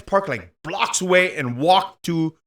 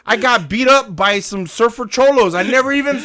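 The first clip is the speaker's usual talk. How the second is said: laughing disbelief; 7 semitones higher, 7 dB louder than usual. Real, not acted.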